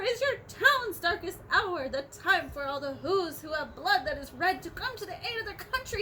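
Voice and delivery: urgent call to arms; mayor crying out. Acted. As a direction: rouse the town to its darkest hour. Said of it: "cried the mayor".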